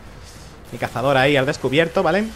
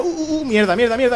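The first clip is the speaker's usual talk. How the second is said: panicked quote; 7 semitones higher than usual. Retold or imitated. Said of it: "Yo digo".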